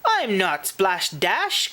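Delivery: mildly hurt outcry; indignant cry. Acted. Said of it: "cried Posh".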